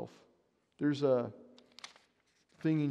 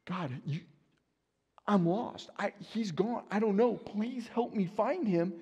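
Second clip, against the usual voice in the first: retold prayer; 5 semitones higher than usual. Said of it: "I'm praying".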